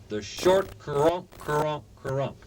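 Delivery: slow short crunk honks imitated; goose hailing call. Shown as a demonstration. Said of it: "First, the hailing call".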